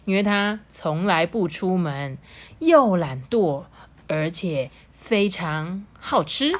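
animated storytelling with drawn-out key words; lilting, measured storybook delivery; story narration. A narrator's reading. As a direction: read slowly and expressively to children. Reads a story to children.

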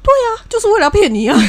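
high, laughing through the words; can barely get it out for laughing. Real, not acted. Teller laughs while answering.

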